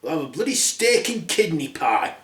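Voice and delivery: grumpy snap. Acted. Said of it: "Grumpy said".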